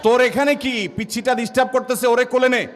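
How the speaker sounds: high-pitched mock telling-off; scolding. Grandparent chasing off the child who is pestering, high mock scolding. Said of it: "দাদি এক ধমক দেয়".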